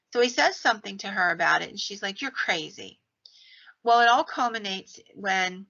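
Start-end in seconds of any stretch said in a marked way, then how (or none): 2.2-3.0 mock whispered dismissal; hushed, scornful whisper from the wife. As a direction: breathe it out, no voice. Wife dismissing husband's remark.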